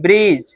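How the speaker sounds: "ब्रिज" said as brij with no separate D; "ब्रिज" ending straight on a j sound; silent D. Shown as a demonstration. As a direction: leave the D out of "ब्रिज". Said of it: "डी पढ़े क्या?".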